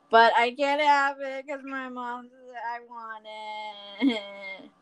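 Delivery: drawn-out whiny complaint; mock whining. Guest craving food mom forbids, mock whining. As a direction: whine it towards a pretend cry.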